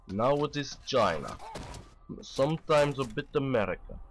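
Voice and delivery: put-on a faint, barely-there Russian accent; Russian accent done very badly. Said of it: "Russian accent because I am very, very bad at it".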